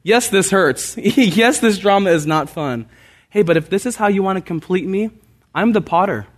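preacher voicing a glad prayer to God; joyful prayer. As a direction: pray it out gladly, almost laughing. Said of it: "And so I can rejoice".

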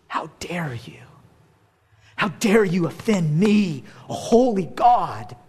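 hissed whisper building to a slow stern rebuke; the Savior voiced as he should not react, stern; indignant God. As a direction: voice outraged divine offense, slow. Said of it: "his reaction from the crucified Savior".

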